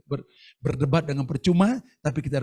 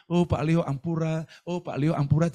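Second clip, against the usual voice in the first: memohon ampun; 3 semitones higher than usual. Retold or imitated. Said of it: "tiga kali".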